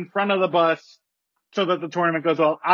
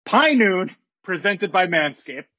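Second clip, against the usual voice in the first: formal announcement. Acted. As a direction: read it like a commissioner at a podium. Commissioner's formal statement.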